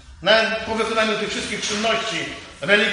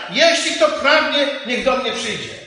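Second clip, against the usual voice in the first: calling out. Acted. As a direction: cry it out like Jesus calling to the people. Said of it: "Głos wołania".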